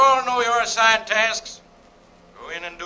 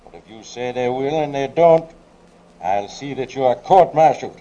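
stern shouted command down the tube; raised-voice officer's threat; shouted warning; 5 semitones higher than usual. Acted. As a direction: call it out forcefully, as an ultimatum. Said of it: "tube and shouted".

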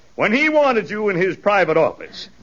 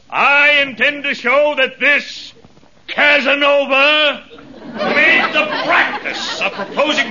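courtroom oratory; 4 semitones higher than usual. Acted. Lawyer accusing the defendant before the jury, oratorical. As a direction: build the accusation grandly, pausing for effect.

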